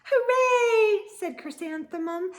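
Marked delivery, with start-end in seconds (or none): 0.0-1.0 high, loud cry of joy; excited cheer. A narrator's reading. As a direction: burst out happily. Excited girl running to school.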